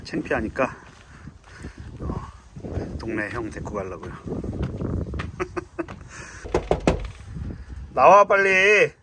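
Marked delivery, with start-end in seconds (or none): 4.2-7.9 high airy giggle; breathy laugh. Real, not acted. Laughing before calling his friend. 7.9-8.9 slow, loud, higher call. Real, not acted. Calling friend out of the house.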